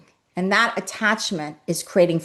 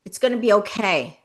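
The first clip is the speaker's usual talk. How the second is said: gentle reassurance. Shown as a demonstration.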